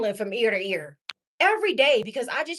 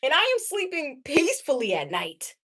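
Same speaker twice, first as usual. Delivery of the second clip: gushing; 3 dB louder than usual. Real, not acted. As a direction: really savor it. Savoring being single and free.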